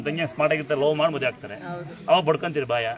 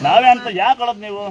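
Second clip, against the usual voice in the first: higher and louder, scolding the crying women; 6 semitones higher, 10 dB louder than usual. Real, not acted. Giver scolds weeping women for crying, loud and raised. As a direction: tell them off loudly for crying.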